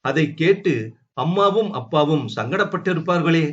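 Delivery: ordinary delivery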